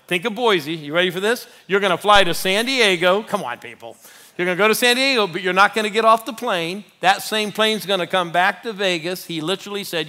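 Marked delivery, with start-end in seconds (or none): 4.4-9.2 excited retelling. Retold or imitated. Agent's plan retold excitedly.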